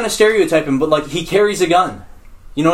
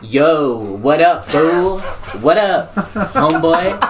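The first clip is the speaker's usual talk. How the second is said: lower, laid-back homeboy greeting; lightly voiced cool friend; Jaquise impression; 4 semitones lower, much slower than usual. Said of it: "try to be like Jaquise".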